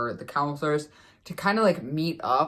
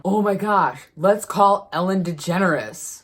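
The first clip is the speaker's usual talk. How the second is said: excited call; 3 semitones higher, 4 dB louder than usual. Retold or imitated. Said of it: "someone called out".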